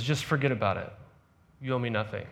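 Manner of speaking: soft, quiet words of release; a quiet, kind pardon; gentle forgiveness. Retold or imitated. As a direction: let him off the hook gently. Loan shark forgives debt softly.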